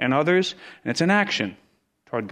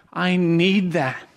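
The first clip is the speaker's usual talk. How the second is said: "I need that" said slowly, each word weighed; slow emphatic repeat; 4 semitones higher, much slower than usual. Shown as a demonstration. Preacher repeats to the church that he needs correction, slowly. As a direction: let it sink in, slow and deliberate.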